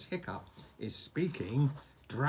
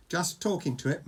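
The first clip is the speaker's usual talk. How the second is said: mildly embarrassed reply, only lightly acted; 5 semitones higher, 4 dB louder than usual. A narrator's reading. Hiccup admits it to Fishlegs, a touch embarrassed. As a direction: own up to it sheepishly. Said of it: "mumbled Hiccup, very embarrassed".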